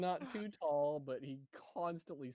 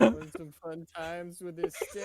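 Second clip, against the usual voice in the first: louder, overexcited pitch; loud eager offer; 4 semitones higher, 10 dB louder than usual. Acted. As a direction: push the stick with fake cheer. Repeating the stick offer.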